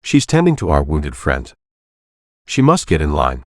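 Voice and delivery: put-on Mexican-accented woman repeating the rule; firm Mexican accent, flatly insisting; stubborn Mexican accent, no give. A narrator's reading. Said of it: "a female voice with a thick Mexican accent".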